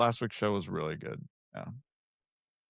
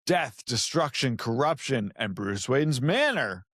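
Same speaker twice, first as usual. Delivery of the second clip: movie trailer voice; slower than usual. Acted. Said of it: "I wanna take this beginning thing".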